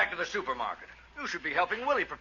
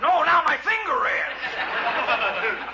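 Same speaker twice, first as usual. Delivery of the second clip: pained complaint; 6 semitones higher, 5 dB louder, much slower than usual. Acted. Finger hurt by hammer.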